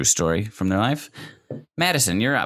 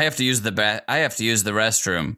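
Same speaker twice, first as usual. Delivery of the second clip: flat robot voice, lightly done. Pretend. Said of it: "I say it like a robot".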